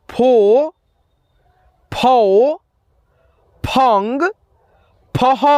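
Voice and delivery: each syllable of नौ ना नी नू said slowly and separately with a pause after it; syllable drill. Shown as a demonstration. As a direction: recite the न barakhadi one syllable at a time, clearly. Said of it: "सारे बारह खड़ी को अब आपको यहाँ पे उच्चारण करना है". (हर अक्षर अलग और साफ़ बोलते हुए बारहखड़ी)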